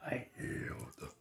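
whispery giant-fox growl; raspy, softened beast rumble; Kurama voice. Acted. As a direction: growl it out breathily like a huge fox. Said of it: "As Kurama then said".

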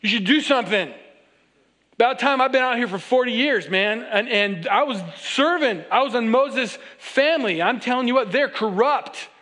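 Moses grumbling that it's about time; preacher playing Moses as cheeky and impatient; sassy impatience. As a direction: needle God like an impatient shepherd. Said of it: "he's thinking to himself".

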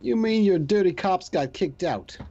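put-on skeptical Boston accent; wry Boston accent. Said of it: "my horrible Boston accent".

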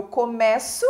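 COMEÇO with an open E. Shown as a demonstration. Teacher giving a work-hours example, open E in começo. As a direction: say começo with the open stressed vowel. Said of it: "é do verbo começar".

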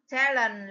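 Talent stressed on TAL; first-syllable stress. Shown as a demonstration. Teacher gives the answer, Talent stressed on the first syllable. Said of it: "là the first stress".

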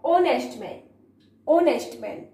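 "ऑनेस्ट man" starting on the o vowel; silent h. Shown as a demonstration. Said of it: "कैसे इसको read करना है".

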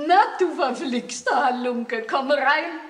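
put-on loud, booming welcome to the boy; hearty loud greeting. Grandmother greets Emil at the door, loud and hearty. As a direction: call him in with gruff affection.

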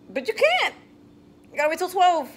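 put-on high sing-song baby talk. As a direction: coo it at the baby.

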